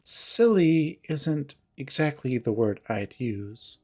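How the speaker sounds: slow, measured retort, leaning on SILLY; cool disapproval. Acted. Jenna coolly corrects Heather, first take.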